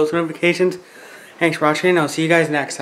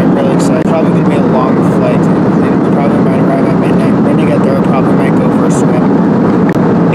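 talking over loud engine noise; on an airplane; 5 dB louder than usual. Real, not acted. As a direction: raise your voice above the cabin hum. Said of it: "If you guys can't hear me, I'm sorry".

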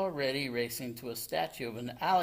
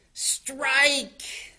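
high, loud strike call; triumphant call; 12 semitones higher, 7 dB louder than usual. A narrator's reading. Grandma bowls the ball, loud triumphant call.

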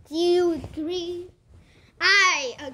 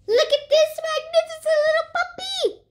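nature documentary; 9 semitones higher than usual. Pretend. High put-on presenter voice.

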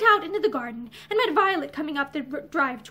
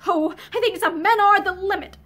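acted outburst, higher and louder; sobbing exclamation; 4 semitones higher, 5 dB louder than usual. A narrator's reading. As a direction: exclaim on the edge of a sob. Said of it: "added with a sob".

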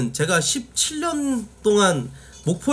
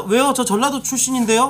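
raised pitch, indignant challenge with stress on 저; defensive Jeolla native; 5 semitones higher than usual. Retold or imitated. 채팅창에 출신을 밝히며 발끈하는 사람을 흉내 내듯. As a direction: bristle back like someone whose hometown got mocked. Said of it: "하니까".

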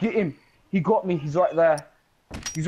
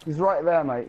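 mock Aussie accent. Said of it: "He, he does that accent".

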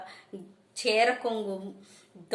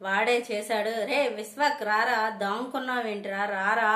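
a touch of a yell, a little raised; mother half-yelling for Vishwak; shouting; 3 dB louder than usual. Acted. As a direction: demand the son come out. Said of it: "గట్టిగా అరుస్తుంది".

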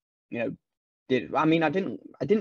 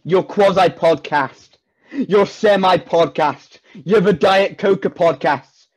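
mock teasing; 3 semitones higher, 3 dB louder than usual.

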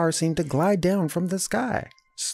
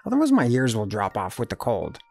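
grumbling; 3 semitones lower than usual. Acted. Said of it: "he grumbled".

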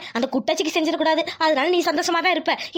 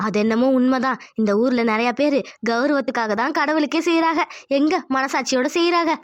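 conscience voice; 4 semitones lower than usual. Acted. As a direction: speak as her inner conscience. Conscience character speaks.

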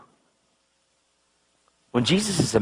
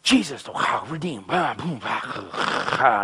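retold gospel preaching; 2 semitones lower, much slower than usual. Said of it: "And I'm like".

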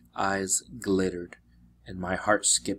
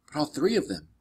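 whimpering; 5 semitones higher, faster than usual. Acted. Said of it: "Grover whimpered".

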